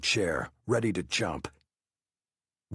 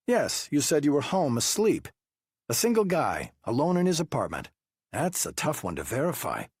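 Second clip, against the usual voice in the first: high, pressing investigator voice; interrogating detective; 7 semitones higher than usual. Acted. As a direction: push him with pointed questions. Wu doubting the alibi.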